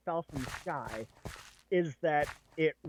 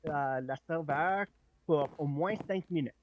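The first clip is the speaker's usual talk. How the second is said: put-on lightly taunting French accent, spoken in French; halting French with a hint of taunt; French taunter accent. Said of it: "say it in a French taunter accent".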